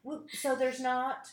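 slow confiding whisper; hushed secret aside. Real, not acted. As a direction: lean in and whisper it. Conspiratorial aside.

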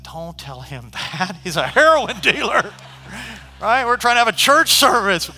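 half-laughing objection; laughing disbelief. Retold or imitated. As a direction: laugh through the mock alarm. Reacting to invitation to dealer.

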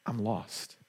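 soft, hushed "I'm lost" with a falling end; hushed first "I'm lost"; quiet confession. Pretend. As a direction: let "I'm lost" sink to almost nothing. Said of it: "is recognizing".

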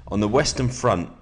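steady, measured book reading; calm nonfiction narration; reading aloud. Acted. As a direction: read the passage to your listener. Reads a war biography aloud.

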